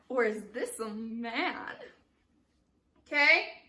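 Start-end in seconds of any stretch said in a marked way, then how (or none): 0.1-1.8 slow, drawn-out theatrical question; acted stage line. Shown as a demonstration. Director shows Babette leaning back on the line, slow and theatrical. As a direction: stretch it out for effect. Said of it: "Lean back".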